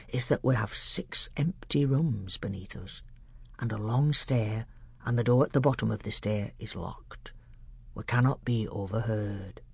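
a hint of a grave old scholar; old doctor.

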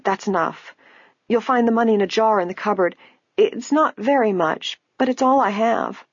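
put-on high, frail old woman voice. A narrator's reading. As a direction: speak like a poor old lady.

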